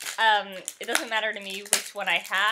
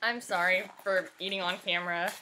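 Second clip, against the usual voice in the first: mouth full; 2 semitones lower than usual. Real, not acted. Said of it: "I'm eating right now".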